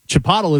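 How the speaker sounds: "Chipotle" as chi-POT-ul; wrong pronunciation. Shown as a demonstration. Co-host conceding his version is wrong, mispronounced. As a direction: rhyme "Chipotle" with bottle. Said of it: "Chipotle is wrong".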